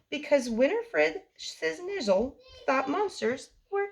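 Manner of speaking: lively bedtime story read-aloud for little ones; reading to children. A narrator's reading. The speaker reading a bedtime story to kids, lively read-aloud. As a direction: read it like story time, bouncy and rhymed. Reads picture book to children.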